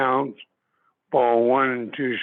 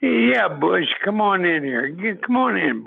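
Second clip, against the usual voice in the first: a higher, hearty imitation of the old skipper; imitating the manager; 6 semitones higher than usual. Old manager calling the player into his office, imitated. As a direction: bark it out like a gruff manager.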